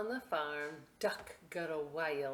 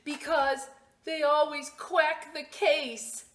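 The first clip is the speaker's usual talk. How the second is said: big punchline; 10 semitones higher, 9 dB louder than usual. Acted.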